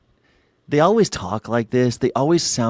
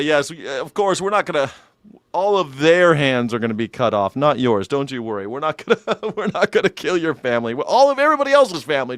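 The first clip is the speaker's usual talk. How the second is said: chuckling white colonist. Acted. White colonist reassures a token ally, giggling condescension. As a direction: keep bursting into fake laughter while reassuring. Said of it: "the white guy's always like".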